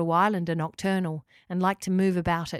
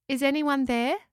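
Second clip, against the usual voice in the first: higher-pitched searching call; 6 semitones higher than usual. A narrator's reading. Locker calls into the gathering darkness, calling out. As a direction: call out to whoever may be hiding. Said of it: "Locker called".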